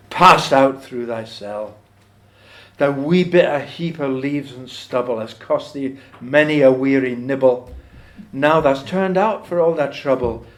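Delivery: slow, deliberate verse reading; poem recitation. Acted. Reciting the mouse turned out into winter, slow poem recitation. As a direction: draw out each line of the verse.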